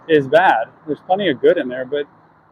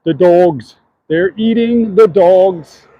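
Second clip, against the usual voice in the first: slightly raised, loud quote of a debate line; slow, emphatic mimicked soundbite, louder; soundbite imitation; 3 semitones higher, 4 dB louder, much slower than usual. Walker quoting a debate soundbite, mimicked emphatically. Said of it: "That's a soundbite I can't get out of my head".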